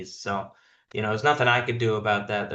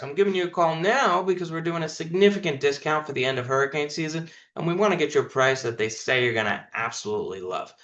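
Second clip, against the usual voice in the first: fast, no pause; 3 semitones higher, faster than usual. Shown as a demonstration. Coach reads the hook to his sales team, fast with no pause. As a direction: rattle the script off fast and without a pause. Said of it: "No pause".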